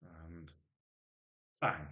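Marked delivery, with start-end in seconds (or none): 1.6-1.9 quick spoken bang for a nail gun; nail gun noise. Retold or imitated. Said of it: "The impression of a nail gun going off".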